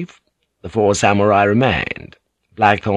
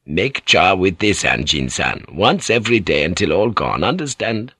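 put-on old doctor, instructing; 2 semitones lower than usual. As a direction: give measured instructions as the doctor, lightly in character.

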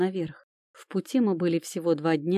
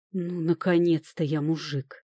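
довольно. Acted. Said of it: "довольно простонал Люк".

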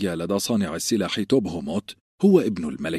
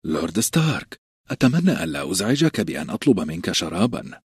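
ordinary delivery, nothing marked

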